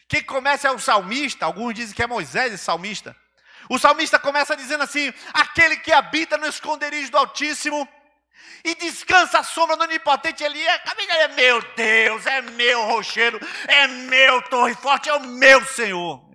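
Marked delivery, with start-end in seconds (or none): 11.1-16.1 mock shout, much higher, slower. Quoting the psalmist's cry to God, retelling a shout.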